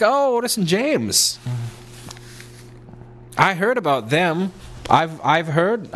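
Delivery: high, drawn-out mock admiration; hammed-up, high-pitched recognition; imitating impressed people. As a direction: coo it slowly as an impressed onlooker. Voicing admiring people who recognise the coat.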